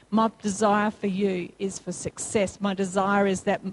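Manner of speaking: quoting God's promises to the congregation, low and calm. Retold or imitated. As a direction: speak as a steady loving father. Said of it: "God's word already says".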